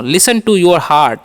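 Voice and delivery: "Listen to your heart" said slowly, word by word; slow model. Shown as a demonstration. Teacher modelling the English phrase slowly. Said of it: "ऐसे बोल सकते हैं".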